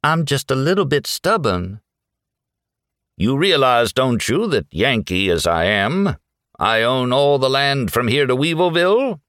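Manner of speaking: high-pitched Southern belle, haughty; Southern lady looking down on him; lilting Southern voice. A narrator's reading. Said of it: "lilting Southern voice".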